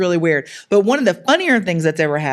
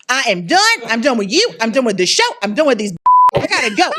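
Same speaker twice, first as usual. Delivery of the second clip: fed up; 5 semitones higher, 4 dB louder, faster than usual. Retold or imitated. Retells mama's fed-up outburst.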